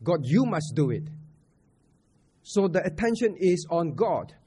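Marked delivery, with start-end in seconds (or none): 0.0-1.1 YOU picked out firmly; stress on YOU. Acted. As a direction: lean on the word YOU. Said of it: "putting an emphasis on God".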